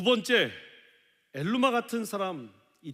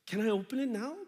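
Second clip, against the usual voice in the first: slow, higher, eager question; eager American; 6 semitones higher, much slower than usual. Retold or imitated. American receiving a gift, eagerly asking, mildly raised. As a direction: ask like a child who can't wait. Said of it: "막 이러면서".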